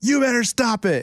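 high, fake-angry voice, acting very mad. Retelling scolding a kid while only acting mad: imitating acting so mad. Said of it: "acting like I was so mad".

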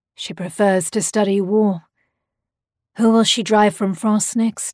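plain reading voice

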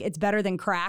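plain

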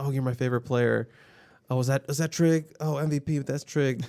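playful, good-natured teasing voice. Retelling how fans teased a player during his interview: imitating fans teasing playfully. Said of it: "teasing him".

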